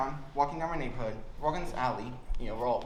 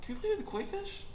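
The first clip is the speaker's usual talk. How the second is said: mock polite ask; 3 semitones higher, 5 dB quieter than usual. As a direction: ask nicely like a good kid. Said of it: "we don't knock on the door saying".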